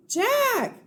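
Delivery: high, loud shout for help; high shouted cry for help. Acted. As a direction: scream from far away for help. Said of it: "Even louder".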